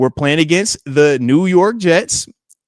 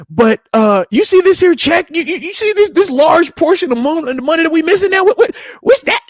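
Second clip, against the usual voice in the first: wife's sit-down; 4 semitones higher, 4 dB louder than usual. Retold or imitated. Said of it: "wifey had this, she had a nice sit down".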